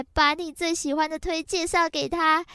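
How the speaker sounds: usual speaking voice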